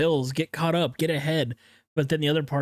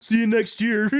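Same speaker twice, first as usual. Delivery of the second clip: laughing; 10 semitones higher than usual. Pretend. Mock farewell with laugh.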